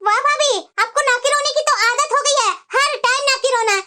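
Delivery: indignant, nagging sister-in-law; angry taunting. Acted. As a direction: throw the complaints back as taunts. ननद भाभी को ताने देती. (चिढ़कर ताने मारते हुए)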